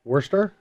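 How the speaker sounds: "Worcester" as WUR-ster, rising like a question; questioning pronunciation. Shown as a demonstration. Asking the co-host how it goes, "Worcester" as a rising WUR-ster. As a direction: try "Worcester" with an R, unsure. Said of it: "How do you actually say it?".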